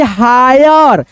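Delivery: हायर drawn out slowly on the "aa-i" glide; demonstrated pronunciation. Shown as a demonstration. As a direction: stretch the vowels in हायर. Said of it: "आ ई से पढ़ते हैं". (हायर को खींचकर, धीरे)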